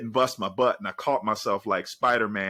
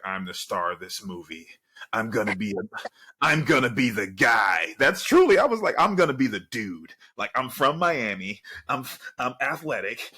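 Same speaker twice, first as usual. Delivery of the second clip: loud, boastful mock brag; imitating his younger self bragging he'd be the guy; cocky young athlete; 4 dB louder than usual. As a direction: play the big-headed freshman star.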